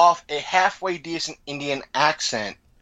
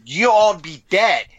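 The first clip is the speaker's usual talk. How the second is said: indignant hero; 5 semitones higher, 4 dB louder than usual. Retold or imitated. Rodimus protests to prime minister.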